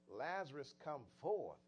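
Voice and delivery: loud summons. Acted. Preacher acting out Christ calling Lazarus from the grave, loud summons. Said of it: "he spoke with a loud voice".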